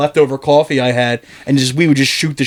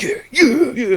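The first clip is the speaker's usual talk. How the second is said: laughing yeses; 10 semitones higher, slower than usual. Real, not acted. Giddy agreeing while boss rants.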